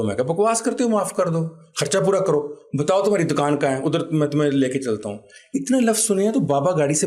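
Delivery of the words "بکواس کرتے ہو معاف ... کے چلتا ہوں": angry retort. Retold or imitated. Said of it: "مجھے غصہ بھی بہت آیا ہوا تھا".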